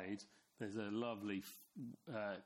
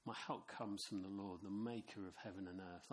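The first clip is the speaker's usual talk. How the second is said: softer reassuring reply; a hint of a calm friend answering; 2 semitones lower, 4 dB quieter than usual. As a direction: answer your friend calmly and quietly. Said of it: "his mate going".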